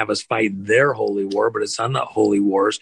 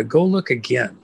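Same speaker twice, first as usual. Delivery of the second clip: calm. Acted. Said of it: "very calmly looks at Elisha and he says".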